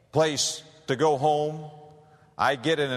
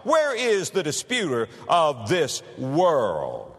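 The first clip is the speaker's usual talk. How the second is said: sarcastic; 2 semitones higher, slower than usual. Retold or imitated. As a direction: draw out each "Where" with scorn. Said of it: "with a sense of sarcasm".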